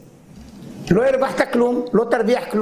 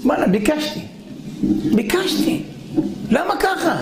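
much higher, aggrieved pleading; a high, plaintive, wounded protest; whiny complaint; 6 semitones higher than usual. Acted. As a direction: whine at God that you already asked. Man complains to God.

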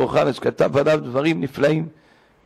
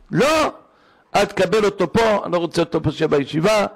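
imitating angry father; 3 semitones higher than usual. Angry secular father confronting the rabbi.

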